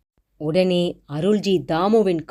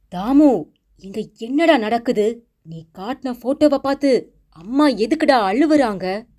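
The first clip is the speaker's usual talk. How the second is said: high, louder anxious demand; alarmed question; 5 semitones higher, 3 dB louder than usual. Acted. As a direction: call out in worried confusion. Mother sees grandmother crying, alarmed. (பதற்றமான உரத்த கேள்வி)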